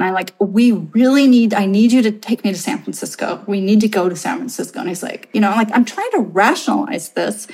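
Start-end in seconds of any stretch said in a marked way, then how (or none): 0.4-4.8 urgent, insistent plea; retold desperation, starting loud; mildly hysterical pleading. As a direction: plead in a rush, hammed slightly. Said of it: "literally hysterical".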